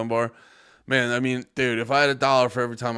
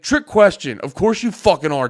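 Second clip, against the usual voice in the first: mock shout; 5 semitones higher, 7 dB louder than usual. Mock answer for Devon, loud.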